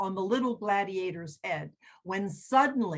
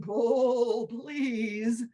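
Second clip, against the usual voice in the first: calm owl. Acted. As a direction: say it calmly, encouraging. Owl repeats calmly.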